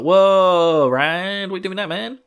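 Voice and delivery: hammed-up surprise at Rand; mock alarm. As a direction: jump back at the sight of a dagger. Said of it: "she's like".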